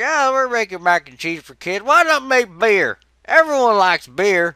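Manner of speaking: loud, high mock executive voice; corporate boss. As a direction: play a pushy company boss. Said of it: "They're like".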